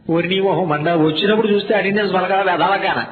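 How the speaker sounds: normal talking voice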